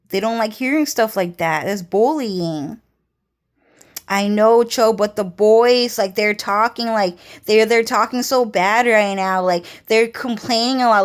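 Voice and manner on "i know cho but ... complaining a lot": louder, worked-up retelling of Jenny; pushing the point about the boys; mock-urgent gossip, louder; insistent friend.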